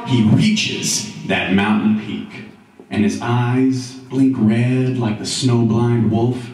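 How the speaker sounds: epic verse narration, swelling and easing; dramatic poem recital. A narrator's reading. Narrator tells of Roy's fourteen-year climb, dramatic recital. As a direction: draw out the climb, slowing toward the summit.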